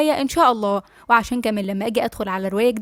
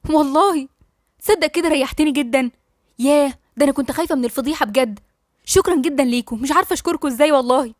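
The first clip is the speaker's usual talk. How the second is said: sarcastic thanks. Acted. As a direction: overdo the thanks with bite. Sarcastic fake gratitude to doctor. (شكر ساخر بصوت أعلى)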